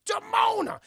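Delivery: very high, loud cry; dramatic reveal. Real, not acted. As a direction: announce the shock culprit to the crowd.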